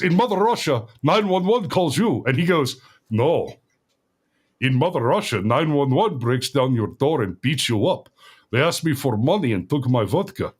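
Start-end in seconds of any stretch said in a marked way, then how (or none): 0.0-2.2 put-on higher-pitched teasing Russian accent; mock Russian accent. Soldiers teasing their Russian buddy, mock Russian accent. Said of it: "teasing him about the accent a little bit". 3.1-10.5 imitated Russian soldier, completely serious; deadpan Russian accent. Russian soldier correcting his teasing buddies, deadpan Russian accent. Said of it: "deadpan, serious, s-, completely serious face".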